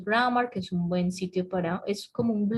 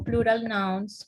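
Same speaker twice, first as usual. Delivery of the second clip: slow dictation; slower than usual. Shown as a demonstration. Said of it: "sería interesante que buscaran".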